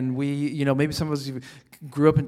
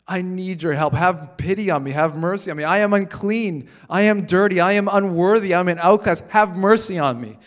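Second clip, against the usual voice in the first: louder, desperate cry for mercy; pleading beggar; 4 semitones higher, 5 dB louder than usual. Acted. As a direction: cry out like a blind beggar begging to be saved. Preacher voices blind beggar pleading.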